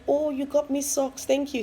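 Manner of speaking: imitating husband's polite thanks. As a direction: play the oblivious husband, hammed-up. Voices husband receiving socks.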